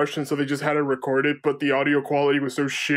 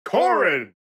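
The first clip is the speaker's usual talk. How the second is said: announcer voice. Retold or imitated. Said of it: "Smash Brothers announcer voice".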